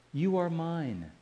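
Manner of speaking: "You are mine" said slowly, with MINE drawn out and falling; measured "You are mine", settling on a long MINE; emphatic and personal. Shown as a demonstration. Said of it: "It's emphatic. It is personal".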